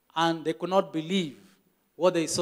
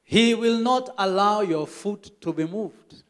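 slow rereading; slower than usual. Retold or imitated. Member rereads verse slowly at pastor's request. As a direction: read the verse again slowly. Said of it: "read that again".

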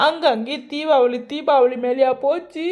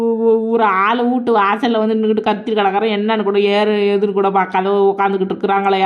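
loud aggrieved wail at the doorway; complaining loudly; 4 dB louder than usual. Acted. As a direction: call out in an upset, aggrieved tone. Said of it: "என்ன அழுதுகிட்டு வரா".

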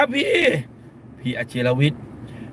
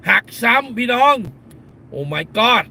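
alarmed exclaim; 5 semitones higher, much slower than usual. Real, not acted. Warning fans of a re-break.

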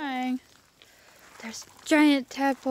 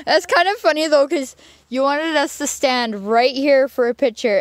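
laughing; 3 semitones higher, 7 dB louder than usual. Real, not acted. Laughing while telling.

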